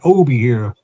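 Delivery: put-on light country Wiltshire accent; a hint of old Wiltshire country burr. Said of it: "that sort of accent".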